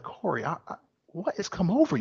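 lightly acted, soft-starting fatherly dismay; a hint of a let-down dad questioning his son; disappointed father. Friend confronting the calm one, mildly disappointed father. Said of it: "I would sound like a disappointed father".

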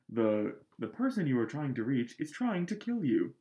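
lightly voiced phone recording; a hint of a robotic phone message; automated caller voice. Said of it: "the automated caller voice".

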